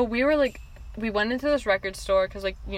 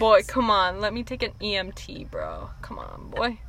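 bro voice; 4 dB quieter than usual. Pretend. Mock bro voice.

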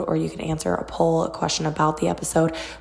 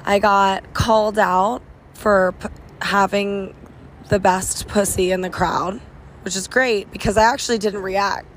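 hoarse, nearly lost voice; raspy whisper. Real, not acted. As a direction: rasp through a voice that's gone. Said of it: "I have no voice".

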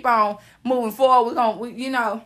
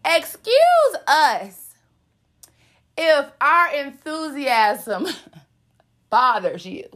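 sarcastic drawn-out excuse us; much slower than usual. Acted. Sarcastic mock apology.

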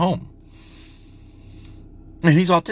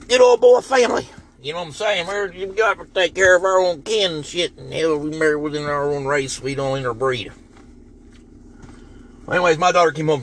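lightly put-on redneck twang, mocking; 5 semitones higher than usual. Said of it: "I'm doing my redneck voice".

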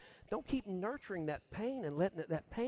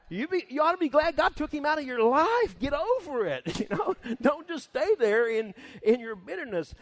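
high, loud mocking voice of a blunt adviser; mock harsh comforter; 8 semitones higher, 8 dB louder than usual. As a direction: brush off the widow's grief, loud and high. Preacher mocks a harsh comforter.

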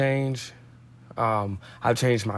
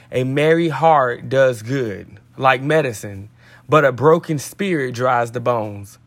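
devotional read-aloud. Acted. Podcast host reads the day's devotional to listeners, measured read-aloud. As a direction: read scripture out deliberately, phrase by phrase.

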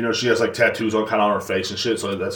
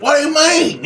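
reality show diva; 14 semitones higher than usual. Pretend. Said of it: "go Real Housewives of Atlanta on everybody".

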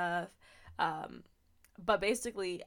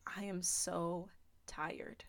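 slow unvoiced whisper, drained; a worn-out plea whispered to God; exhausted whisper; 5 dB quieter, much slower than usual. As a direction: whisper it like you have nothing left. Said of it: "the way I'm saying it now really captures how I was feeling".

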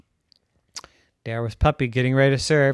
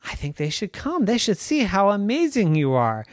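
Rhonda's voice; 5 semitones higher than usual. Acted. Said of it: "And Rhonda said".

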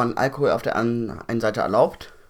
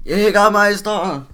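incredulous; 9 semitones higher, 7 dB louder, much slower than usual. Real, not acted. Repeating the drink name in disbelief.

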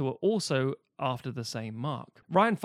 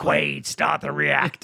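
slow, louder mock movie villain; a hammed-up gravelly movie line; Total Recall quote; 5 dB louder, slower than usual. Quoting Total Recall to a friend, slow hammed-up delivery. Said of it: "Fucking recall".

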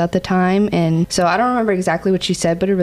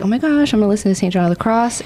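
eager, rushed and bright; excited; 3 semitones higher, faster than usual. Retold or imitated. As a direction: gush about a new discovery. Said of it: "I was like".

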